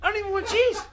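mock pleading.

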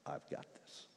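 unvoiced, soft echo of the boast; whispered self-assured line; quoting himself. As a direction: breathe the boast out as God repeats it. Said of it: "You're saying to me".

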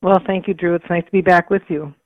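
slightly gravelly, allergy-rough voice. Real, not acted. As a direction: speak with a gravelly throat. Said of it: "excuse my gravelly voice".

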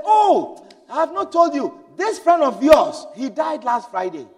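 the mother blurts out the friend's death; exclaiming mother. Retold or imitated. The mother breaks sad news.

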